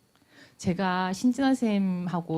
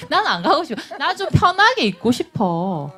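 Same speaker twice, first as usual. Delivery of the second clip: laughing honest wish; 7 semitones higher, 5 dB louder than usual. Acted. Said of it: "진짜 하고 싶은 얘기는 뭘까요?".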